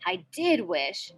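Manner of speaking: "did" pushed up in pitch before "wish"; emphatic DID. Shown as a demonstration. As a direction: lean on "did" to strengthen "wish". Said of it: "We're just emphasizing the word wish".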